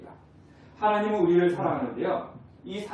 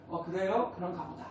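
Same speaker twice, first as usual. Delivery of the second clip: much softer, flat-hearted shrug; dulled indifference; 7 dB quieter than usual. Retold or imitated. A dulled believer hearing of God's love, softly indifferent. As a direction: let it trail off, unmoved. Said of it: "이제 이렇게 되는 거죠".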